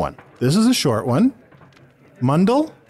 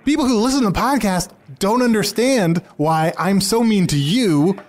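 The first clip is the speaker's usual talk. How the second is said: higher-pitched, building complaint; worked-up venting; exasperated rant; 6 semitones higher than usual. Acted. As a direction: air a grievance, rising as it goes. Complains of being treated badly.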